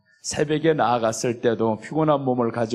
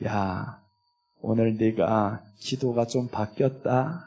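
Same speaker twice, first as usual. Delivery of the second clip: softer and lower, a gentle fatherly word; the Lord's quiet pleased voice; 5 semitones lower, 6 dB quieter, slower than usual. Acted. Pastor voicing the Lord pleased with a changed prayer, hushed and gentle. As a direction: speak it hushed like God smiling at you.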